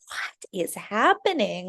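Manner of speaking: slow, hushed whisper of disbelief; awed whisper. Retold or imitated. To herself at the party, a slow awed whisper. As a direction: breathe it out in wonder. Amazed at new client, party.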